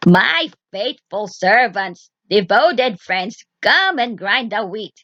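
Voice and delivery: slow, drawn-out summoning call; witch summoning servants. Acted. Witch summoning invisible hands, slow and commanding. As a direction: call your unseen servants slowly and grandly. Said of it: "Then she cried".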